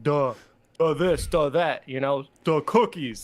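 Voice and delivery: duh this, duh that, each the swapped for duh, slow. Shown as a demonstration. Host shows his slogan duh cookies, playful. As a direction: lean on every duh. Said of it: "I like to say "duh".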